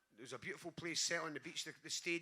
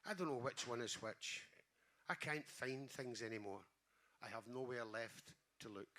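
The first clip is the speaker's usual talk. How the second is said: poem reading. Acted. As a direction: let each line land, unhurried and tender. Reads the mum poem.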